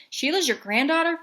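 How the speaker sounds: put-on high, loud surprised kid. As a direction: gasp out the question. Child surprised.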